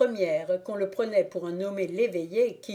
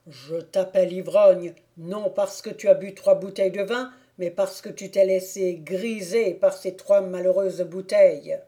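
louder, lecturing with scorn; scornful stranger; 4 dB louder than usual. Acted. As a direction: put him in his place.

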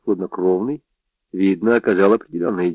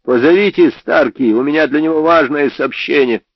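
yelling; 6 semitones higher, 4 dB louder than usual. A narrator's reading. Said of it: "заорал я во всё горло".

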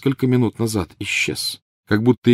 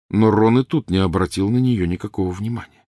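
usual speaking voice

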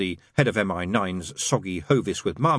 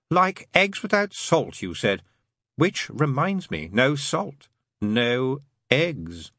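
high, slow, drawn-out demon taunt; taunting demon character; 8 semitones higher, slower than usual. Acted. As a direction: rub each loss in, stretching the words.

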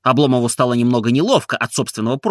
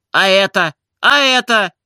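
high, louder accusing question; indignant pointing; 8 semitones higher, 5 dB louder than usual. A narrator's reading. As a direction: point at each mess, outraged. Барин указывает на грязь. (возмущённо указывая на грязь)

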